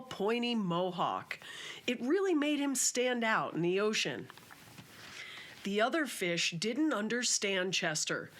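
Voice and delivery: storybook reading voice; gentle children's book narrator; story narration. Acted. Reads children's book aloud.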